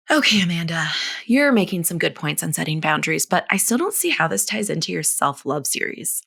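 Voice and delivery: lightly voiced Valley Girl mom; a hint of Valley Girl questioning. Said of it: "I gave every mom listening to this, like, a Valley Girl voice".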